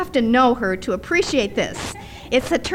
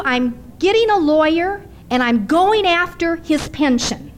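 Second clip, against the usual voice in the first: retold outrage; 4 semitones higher than usual. Widow retells ex-wife's threat.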